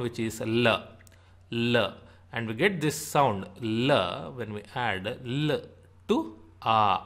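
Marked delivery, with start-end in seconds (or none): 0.4-5.2 "l" said as a short, clipped-off la with a neutral vowel; the brief syllable "l", like the start of London; short l sound. Shown as a demonstration. Teacher shows learners the first sound, short demonstrated "l". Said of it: "let us start with the first sound".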